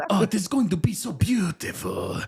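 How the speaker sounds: put-on comic Hispanic midwife accent. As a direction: gush in a hammed-up Hispanic accent. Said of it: "spicy little Hispanic lady".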